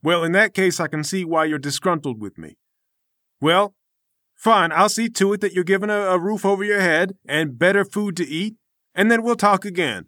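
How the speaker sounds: lightly voiced lofty master; a hint of preachy self-importance; pompous temple master. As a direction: defend your noble discipline with affronted dignity. Game master voices Namir.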